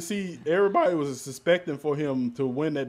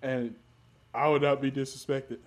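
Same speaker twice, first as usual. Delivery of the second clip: lightly voiced self-important president; pompous declarations, a hint of impersonation; Donald Trump; 3 dB louder than usual. Demanding respect as their president, light Trump impression. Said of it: "My Trump impression is great".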